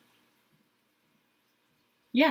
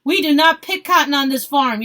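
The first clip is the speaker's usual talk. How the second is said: loud retort, pitched up; yelled; 4 semitones higher, 6 dB louder than usual. A narrator's reading. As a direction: shout it across the camp. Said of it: "yelled another man".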